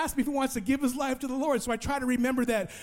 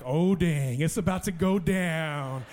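comic dread; 4 semitones lower, slower than usual. Retold or imitated. Comic dread as group returns.

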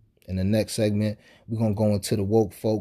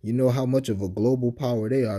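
dry mock admiration; sarcastic. Real, not acted. Podcaster mocking Italy as a supposed global power, sarcastic. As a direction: say it with obvious sarcasm. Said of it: "You sense the sarcasm in my voice".

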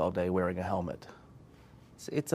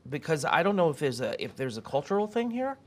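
mock indignant rant; 8 semitones higher than usual. Mock ranting at a British guest.

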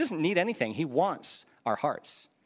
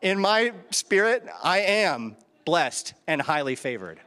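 sincere declaration; slower than usual. Real, not acted. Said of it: "you wanna know the truth?".

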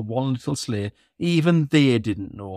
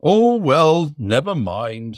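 Santa voice; 3 semitones higher, 4 dB louder, slower than usual. Acted. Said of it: "said Santa".

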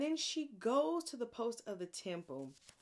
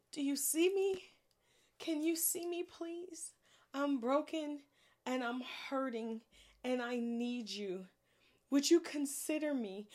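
pleading prayer; 3 semitones higher than usual. Retold or imitated. Hannah voiced praying in anguish.

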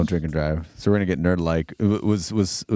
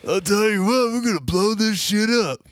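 Stone Cold impression. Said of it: "talking like Stone Cold".

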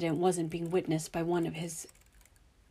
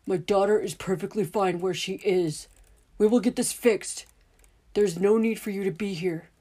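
louder, deliberate and controlled; firm slow anger; 2 semitones higher, 6 dB louder than usual. Acted. Father warning the men to leave, firm and deliberate. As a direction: hold the anger in, spell it out. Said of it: "He spoke slowly".

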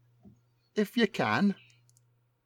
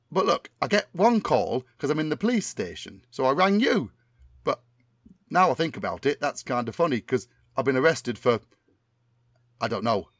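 Tommy Cannon impression. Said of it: "my memory of what Tommy Cannon sounds like".

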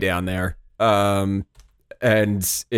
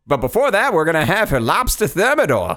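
higher, mock-hearty character voice; hammed-up stilted dialogue; 6 semitones higher than usual. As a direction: play along in corny old-time dialogue. Continues the stilted dialogue parody.

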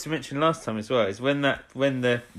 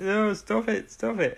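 high-pitched urgent protest; acted high-voiced interruption; urgent hushing; 11 semitones higher, slower than usual. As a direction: cut them off in a high, pleading voice. Voicing a character trying to hush someone.

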